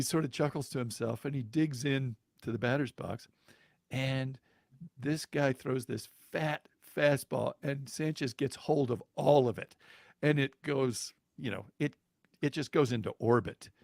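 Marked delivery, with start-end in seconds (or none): none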